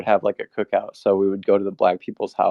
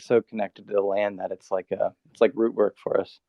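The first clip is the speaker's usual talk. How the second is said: talking around a dip; words through a wad of tobacco; mouth full of tobacco. Real, not acted. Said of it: "I have tobacco in my mouth".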